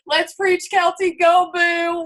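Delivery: high, loud, imitating a cheering friend; hyped shout. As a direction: shout it like a teammate in the background getting hyped. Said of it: "He's like".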